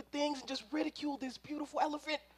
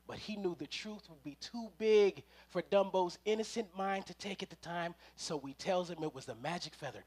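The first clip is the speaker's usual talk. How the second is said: much lower and softer, almost a hush; hushed storytelling; 8 semitones lower, 10 dB quieter than usual. A narrator's reading. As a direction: draw them in with a low, soft hush.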